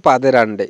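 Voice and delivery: পাদের আন্ডে, no n in the first part; wrong form পাদের আন্ডে; common mispronunciation. Shown as a demonstration. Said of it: "উচ্চারণটা কিন্তু সঠিক না".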